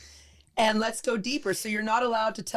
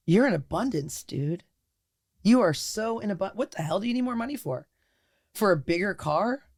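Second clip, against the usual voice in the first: amused pep talk. Pretend. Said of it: "wouldn't it be like".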